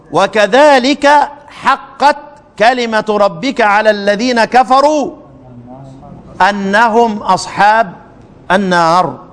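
slow, measured recitation; Quran recitation. Shown as a demonstration. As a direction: draw the verse out reverently. Recites the Ghafir verse.

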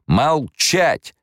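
sharp, high angry bark of an emperor; barked command. A narrator's reading. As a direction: snap the order to silence the baron. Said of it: "рявкнул император". (император рявкает на барона, резкий окрик)

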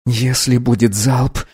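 a wheezing, failing voice; hoarse rasp. Acted. Boy Arthur gasping to the captain, hoarse and strained. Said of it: "прохрипел Артур".

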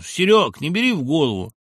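loud, hearty friend's voice; boozy pal. Acted. Old co-author cheering up his friend, loud hearty voice. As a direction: clap him on the back with words. Шептулин consoling on phone.

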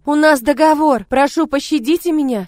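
loud, high begging; accused woman begging the lord for mercy; desperate plea. Acted. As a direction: cry out for mercy. Begging for her life.

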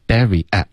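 "Barry at" joined with no gap; linked words. Shown as a demonstration. Teacher models linking for student, seamless "Barry at". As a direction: run "Barry" straight into "at". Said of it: "之间不要顿".

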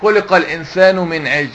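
عجل cut to "ʿijl"; mistaken reading. Retold or imitated. Teacher imitating someone who misreads the verse, mistaken reading. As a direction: misread عجل with no vowel on the jim. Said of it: "هو بيقرأ يقول لك إيه".

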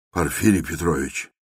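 plain reading voice

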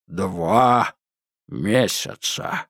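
slow, deliberate, spelled-out words; like explaining to a small child; slow and clear. A narrator's reading. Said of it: "медленно и чётко повторил Джет".

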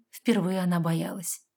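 ordinary delivery, nothing marked

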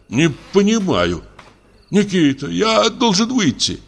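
high, slow, quavering plea; trembling voice. A narrator's reading. Imprisoned doctor begging the guard, trembling. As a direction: beg the guard with a shaking voice. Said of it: "сказал он дрогнувшим голосом".

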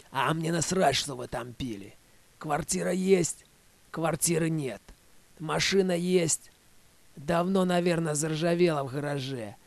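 loud, heated nagging tirade; angry scolding. Acted. Svetka scolds Vek about the trip, loud and angry. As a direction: tear into him like a fed-up woman.

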